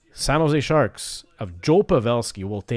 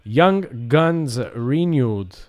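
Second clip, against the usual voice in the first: hyped slow announcement; 3 semitones higher, 6 dB louder, much slower than usual. Real, not acted. Announcing a prized card.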